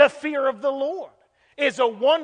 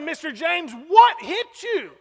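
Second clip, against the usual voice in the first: urgent questioning; 5 semitones higher, 4 dB louder than usual. Retold or imitated. Preacher acting out his question to crying Mister James, urgent questioning.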